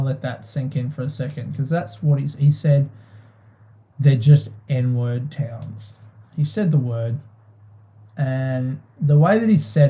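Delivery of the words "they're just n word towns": flat matter-of-fact quote. Retold or imitated. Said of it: "in his gruff, like, way that he speaks, very matter-of-factly".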